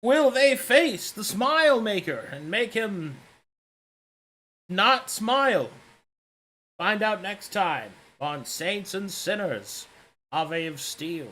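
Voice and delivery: dramatic next-time announcer; Tommy Sandelburns voice. Acted. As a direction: tease the next episode like a TV announcer. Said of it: "defaulted to the Tommy Sandelburns voice".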